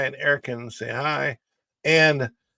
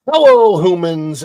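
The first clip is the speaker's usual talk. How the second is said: loud greeting; 6 semitones higher, 12 dB louder than usual. Real, not acted.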